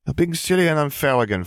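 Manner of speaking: high, scolding sisterly voice; exasperated younger sister. A narrator's reading. Gabby scolds her sister.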